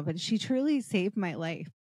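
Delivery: a touch of tears, voice softening; holding back tears while thanking her; getting emotional. Real, not acted. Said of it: "I'm gonna get emotional".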